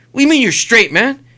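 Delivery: imitating an affronted challenge; confrontational attitude. Stranger in car challenges a dad, imitated attitude. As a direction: challenge him with questioning attitude. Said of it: "They start getting an attitude".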